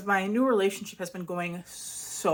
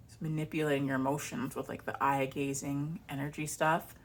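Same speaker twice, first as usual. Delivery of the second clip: hushed accusation; 3 semitones lower, 6 dB quieter than usual. Retold or imitated. Ex accusing new partner.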